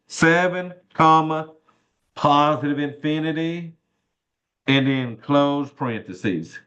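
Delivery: slow, spelled-out dictation; dictating. Shown as a demonstration. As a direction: read each symbol out slowly. Reading out while typing answer.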